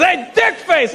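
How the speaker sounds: high-pitched holler; acted insulting yell. Italian dude calling the comedian, insulting shout.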